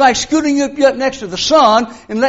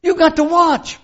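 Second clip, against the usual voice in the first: a stern officer's rebuke, pitched higher; lieutenant lecturing the guard who fell asleep; scolding lieutenant; 6 semitones higher, 3 dB louder than usual. Retold or imitated. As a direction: dress down the private. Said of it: "He said".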